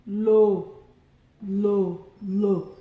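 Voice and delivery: teacher calling the tones of Akara; tone names. Shown as a demonstration. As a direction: chant the tone marks for the class. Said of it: "let's do the tone marks together".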